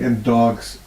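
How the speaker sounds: dry, mock-sarcastic aside. Real, not acted. Healer recalling her own doubt, lightly sarcastic. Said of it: "And sarcastically".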